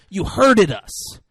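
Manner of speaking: high, loud mimicry of the slurred accusation; hammed-up repetition of hurted, stretched and wailed; imitating the mispronounced line. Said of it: "He keeps saying".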